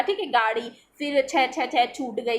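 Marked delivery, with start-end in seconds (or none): 1.3-2.4 slow repeats "छ छ छ" before "छूट"; stuttering. Shown as a demonstration. Teacher demonstrates stuttering on छूट, repeated "छ छ छ". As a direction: repeat the first sound, "छ छ छ", then finish "छूट गई". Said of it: "कई बार दोहराता है".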